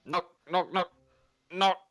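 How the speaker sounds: raspy voice. Acted. Drunk visitor at a friend's door, raspy announcement. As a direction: rasp each word out separately. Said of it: "he, uh, rasps his voice".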